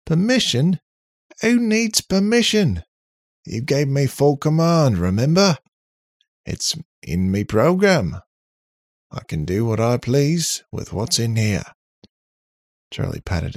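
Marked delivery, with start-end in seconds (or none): 0.1-11.8 high, loud indignant robot; defiant robot character. Acted. Robot scorning the need for permission, defiant. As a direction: scoff loudly, pitch soaring on the challenge.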